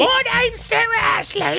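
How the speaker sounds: high hammed-up British woman; mock British accent. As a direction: introduce yourself as a posh Brit, way up high. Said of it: "a surly British woman is the voice".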